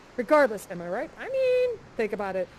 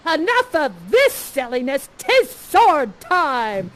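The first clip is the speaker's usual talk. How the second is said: louder, slow swaggering challenge; bold Ferdinand; 7 dB louder, much slower than usual. Acted. Ferdinand challenging the parent to swords, swaggering. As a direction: draw your sword with swagger. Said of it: "you're like".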